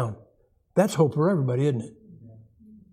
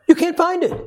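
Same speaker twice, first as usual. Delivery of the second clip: emphatic punchline; 12 semitones higher, 5 dB louder than usual. Real, not acted. Preacher's punchline.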